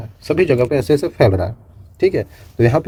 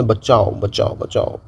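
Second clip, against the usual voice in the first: fading echo cry; 3 semitones lower, much slower than usual. Shown as a demonstration. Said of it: "यहाँ से चिल्लाया मैंने".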